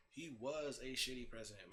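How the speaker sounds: WAS leaned on as a correction; emphatic "was", the rest falling away; stress on WAS. Real, not acted.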